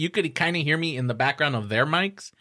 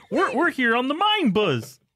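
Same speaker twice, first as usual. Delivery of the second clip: pitched way up with swooping intonation; 10 semitones higher than usual. Warming up before trying Miss Piggy, introducing the podcast in Kermit the Frog voice. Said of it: "maybe if I do it".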